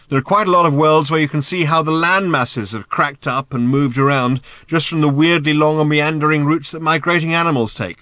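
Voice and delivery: loud, high, talking over thundering hooves; shouted explanation. A narrator's reading. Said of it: "shouted Ford".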